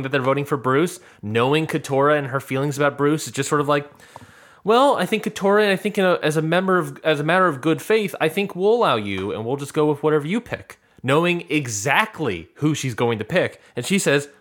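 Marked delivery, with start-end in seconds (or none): 4.6-10.8 higher, deliberate-sounding hedging at the start; mock-diplomatic concession. Retelling Drew humoring an ally, mock-diplomatic. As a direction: hedge your way into a generous offer, easing down. Voicing Drew's strategic concession.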